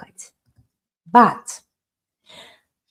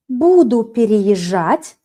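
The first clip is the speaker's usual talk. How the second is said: slow, even Буду переезжать; correct form; slower than usual. Shown as a demonstration. Teacher gives the correct form slowly. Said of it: "perfect, I will be moving".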